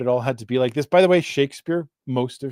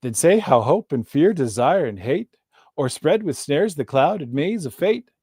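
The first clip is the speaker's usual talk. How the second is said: lilting, strongly stressed iambic beat; poetry read aloud to show off its rhythm; metered verse recitation. Shown as a demonstration. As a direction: read the couplets with a pronounced rise-and-fall beat. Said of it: "I was kinda giving it away in the way".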